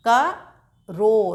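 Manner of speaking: करो stretched very slowly; drawn-out word. Shown as a demonstration. Teacher models करो slowly for pupils, stretched. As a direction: hold the ओ of करो long. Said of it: "ज़ोर ज़ोर से बोलकर अभ्यास करिएगा".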